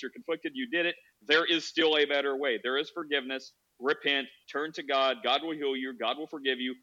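calm, sincere reassurance at natural pitch; understanding consolation. Acted. Preacher consoling a distraught mother, calm and understanding. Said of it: "You should be like".

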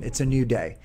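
ordinary talk

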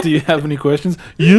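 bright squeaky sing-song welcome. Retold or imitated. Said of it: "What I'm going for with this guy".

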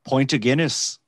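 lightly put-on Irish accent; a quick try at an Irish accent; Irish-accented pint order; mock Irish accent. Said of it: "like, an Irish accent".

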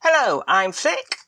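talking round a sweet; sweet in the mouth; mouth full. Real, not acted. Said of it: "I have a sweet in my mouth".

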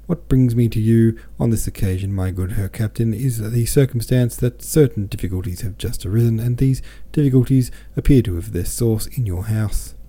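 lightly lifted, sing-song formality; speechifying with a mild sing-song; high sing-song. A narrator's reading. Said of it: "He went on in his high sing-song".

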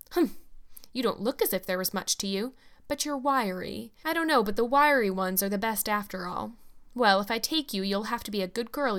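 a lightly voiced stern, blunt housewife; hard, grasping woman. Mrs Blewett bargaining over the orphan, lightly voiced stern and blunt. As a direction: lay down terms like buying a workhorse.

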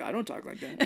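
put-on high, light Russian accent; mock Russian. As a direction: object in a joking Russian voice. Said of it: "real Russian people are like".

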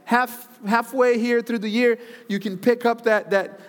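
high, fast, fervent urging. Real, not acted. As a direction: pump up the crowd. Preacher urging the crowd.

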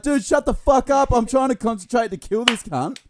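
mock annoyed. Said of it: "I was almost like".

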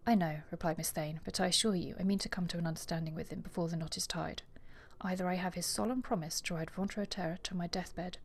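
lightly voiced novel reading, trailing into a whisper; story narration. Podcaster reading the ending to her co-host, soft story narration. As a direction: read the ending softly aloud. Reads the ending passage aloud.

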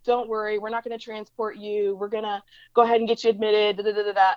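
airy, offhand retold reassurance; imitated nonchalance. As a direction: play a doctor breezily brushing off worries. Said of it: "like, nonchalant".

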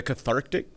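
"cathartic" with a hard glottal stop before the -tic; "cathartic" said as catharʔtic, stressing the ick. Real, not acted. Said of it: "you had a strong glottal stop there".

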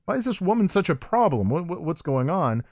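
high, baffled questioning; mock puzzled high voice; confused viewer. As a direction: squeak out the confusion like a lost viewer. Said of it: "and you say".

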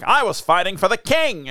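lightly mock a very American accent; put-on American accent on a proud declaration; exaggerated American accent. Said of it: "he's the most American sounding person".

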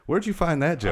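high, loud real surprise; surprised. Real, not acted. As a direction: caught off guard, laughing. Surprised at old joke recalled.

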